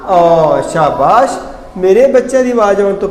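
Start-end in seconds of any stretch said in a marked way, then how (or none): 0.1-0.6 "ਔ" as a loud, clear vowel sound; "ਔ" sounded out on its own, loud; sound demonstration. Shown as a demonstration. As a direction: model the vowel "ਔ" loudly for the class. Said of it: "ਕੀ ਆਵਾਜ਼ ਪੈਦਾ ਹੁੰਦੀ ਹੈ".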